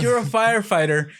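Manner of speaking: high-pitched indignant outburst; acted angry rant at a neighbor; mad. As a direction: fire back in exasperated disbelief. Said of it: "I was so mad".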